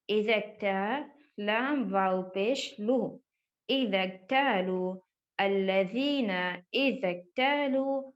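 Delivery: slow letter-by-letter Quran spelling; spelled recitation. Shown as a demonstration. Teacher spelling the verse out for children. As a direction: sound out each letter slowly.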